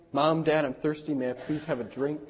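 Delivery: put-on softly polite child's request; gentle, lightly acted politeness, softening toward the end; very nice. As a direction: ask nicely, imitating a well-mannered child. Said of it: "Sometimes in a very nice way".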